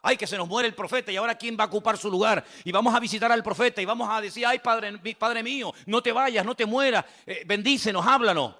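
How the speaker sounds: hammed-up weeping plea; mock wailing lament. The king crying over the dying prophet, mock wail.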